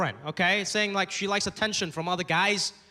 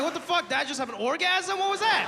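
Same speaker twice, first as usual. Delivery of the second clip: shocked; 8 semitones higher than usual. Retold or imitated. Son reacts to dad's sneeze, shocked. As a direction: react to the noise in alarm. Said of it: "I'm like".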